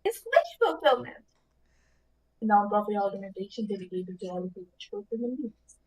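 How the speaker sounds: genie voice. Pretend. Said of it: "give it your best genie voice".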